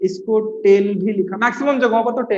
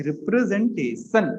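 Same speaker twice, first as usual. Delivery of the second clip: softer, syllables drawn out; slow dictation; 2 semitones lower, 5 dB quieter, slower than usual. Real, not acted. Teacher repeating the topic to students, slow soft dictation. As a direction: spell it out slowly by syllable, quietly.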